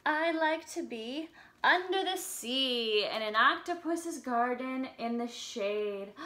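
slow, sing-song storybook reading; reading to children. Acted. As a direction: read the lyrics gently to little kids. Reads song lyrics to children.

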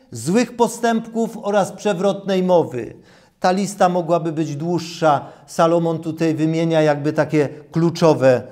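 ordinary delivery

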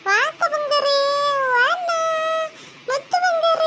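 put-on high cooing to a baby; drawn-out pet-name cooing; baby talk. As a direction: coax a little one in a lifted, sing-song voice.

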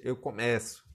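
"começo" with the verb's open stressed e. Shown as a demonstration. Teacher showing how it differs, open E in "começo". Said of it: "como é diferente".

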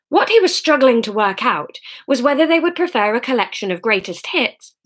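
words broken by a burp; burping mid-sentence. Real, not acted. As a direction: burp through the end of the line. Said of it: "burping mid-story".

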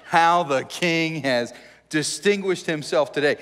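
slow, mocking sarcasm on How; sarcastic. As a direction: drip scorn like a wife snapping her fingers. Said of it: "You can hear the sarcasm".

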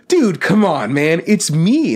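high, breezy mock dudebro; casual bluff. Sidekick bluffing past a guard, high and breezy. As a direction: pretend everyone already knows you.

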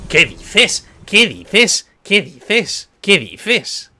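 repeated rising "what?"; incredulous. Real, not acted. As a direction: keep asking it up high, astonished. Repeating disbelief at game event.

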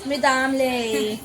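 put-on slow, drawn-out toddler whine of Damle; imitating little Mau. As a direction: stretch मी Damle like a tired small child. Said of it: "जरा माऊचा एक dialogue बोला". (लहान माऊची हलकी नक्कल, सावकाश)

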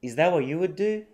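"Is that what you would do" joined up, no T in "that" or "what"; dropped Ts, linked. Shown as a demonstration. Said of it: "ThatのTが落ちてて".

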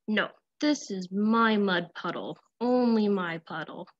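a grumpy little pig guarding mud; stubborn pig. Acted. Pig refuses to share.

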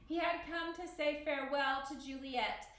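measured read-aloud storyteller voice; story narration. A narrator's reading. Teacher reading Romeo and Juliet to the class, story narration.

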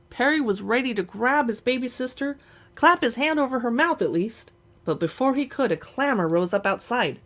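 steady, even storybook reading; story narration. Acted. Streamer reading a novel's first page to viewers, narrating. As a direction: read the page aloud like an audiobook.

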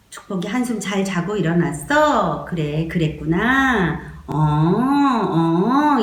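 slow, calm mother voice; soothing mother. Shown as a demonstration. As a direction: lull the baby with slow soothing words. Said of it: "이러면서". (천천히 달래는 엄마 목소리)

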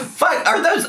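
sudden high gasp of alarm; startled gasp. Real, not acted. Reacting to the gift box, a startled high gasp. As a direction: caught off guard, voice jumps up high.

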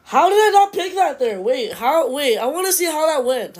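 rant mode. Real, not acted. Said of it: "I'm about to go full rant mode".

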